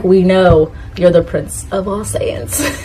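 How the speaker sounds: slow, exasperated mock reply; weary listeners. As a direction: drag it out as if tired of hearing it. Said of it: "people are like".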